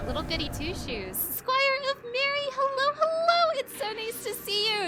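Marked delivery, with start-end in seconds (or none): 1.2-4.9 high, loud, bubbly welcome; cheery greeting. Real, not acted. Excitedly welcoming raiders who stopped by. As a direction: greet them with a big happy voice.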